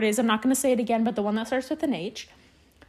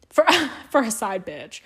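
laughing repeat. Real, not acted.

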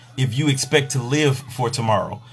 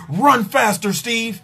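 a hint of a barking coach, higher; imitating a coach; 7 semitones higher, slower than usual. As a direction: shout it like a track coach. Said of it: "the coach be like".

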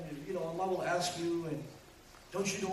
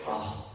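exasperated huff; demonstrated "uff". Shown as a demonstration. Preacher showing parents what not to say, exasperated huff. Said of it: "Don't even say".

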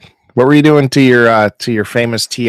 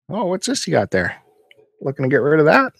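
nosy buyer voice; 6 semitones higher, faster than usual. Retold or imitated. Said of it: "I'll usually poke my head in".

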